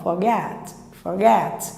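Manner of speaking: "forget" with a weak "for", weight on "get"; stress at the end. Shown as a demonstration. Teacher showing the weak schwa, "forget" stressed at the end. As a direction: save the force in "forget" for the last syllable. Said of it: "o forte lá pro final".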